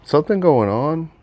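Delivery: high, loud, clueless gasp of a question; hammed-up startled question; mock surprise. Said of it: "people that are like".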